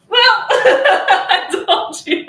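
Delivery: high loud laughter through the words; laughing hard. Real, not acted. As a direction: crack up as the dog swats you. Dog bats her, she laughs.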